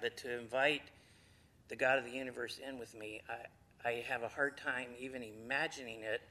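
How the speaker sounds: ordinary delivery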